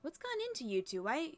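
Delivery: fairy aunt faltering mid-sentence, mildly puzzled; lightly acted fuss, lilting up, then trailing into bafflement; lightly voiced flustered fairies. Fairies explain the sealed door but forget why, mildly flustered.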